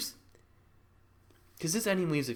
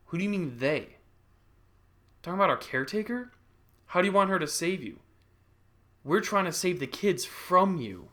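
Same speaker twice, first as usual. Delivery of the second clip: lightly voiced doctor, raised pitch; doctor brother; 6 semitones higher, 4 dB louder than usual. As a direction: question her with mild exasperation. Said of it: "doctor brother be like".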